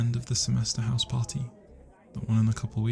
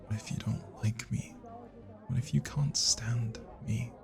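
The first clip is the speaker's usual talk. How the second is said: anxious whisper; 5 dB quieter than usual. Acted. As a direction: barely dare to ask. Anxious confession.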